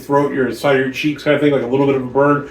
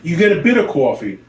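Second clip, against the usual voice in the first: Philadelphia accent slipping out on coffee; Philly accent; 3 semitones higher than usual. Real, not acted. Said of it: "this sounds like breaking into my fucking Philly accent".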